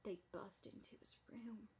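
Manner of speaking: hushed unvoiced suspense whisper. Building suspense for her friend in a whisper. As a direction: drop to a whisper for the twist.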